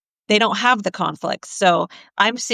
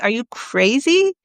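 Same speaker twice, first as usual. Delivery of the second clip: higher, shocked disbelief at the idea; mock-aghast protest, pitched up; incredulous alarm; 4 semitones higher than usual. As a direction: play a wife horrified by the suggestion. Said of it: "And she's like".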